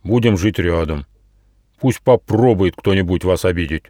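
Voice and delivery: understated threat from a protective beetle; a touch of threat; menacing. Acted. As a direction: warn them off with mild menace. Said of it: "Это было сказано так грозно".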